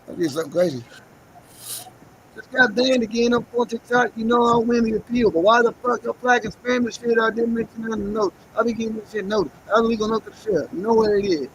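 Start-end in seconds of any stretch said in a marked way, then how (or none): 2.4-11.5 loud rant. Real, not acted. Ranting about TikTok ban.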